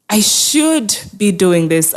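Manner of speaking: "should" leaned on heavily, said slowly; stress on should. Shown as a demonstration. Guilty caregiver scolding herself, "should" stressed slowly. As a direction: weigh down the word "should", slow and deliberate. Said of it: "I like to emphasize the word should".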